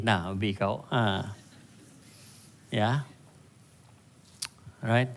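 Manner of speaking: ordinary talk, nothing marked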